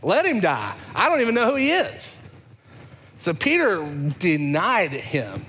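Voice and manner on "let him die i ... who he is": dismissive, rising to a high outburst; contemptuous denial. Acted. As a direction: spit it out with contempt. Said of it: "Peter is saying".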